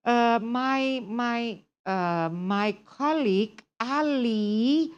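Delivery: halting learner hunting for words, slow drawn-out name; hesitant stumbling. Acted. Teacher imitates a student going back and forth, hesitant stumbling. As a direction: stall on filler sounds and stretch the words. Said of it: "kalau bolak-balik".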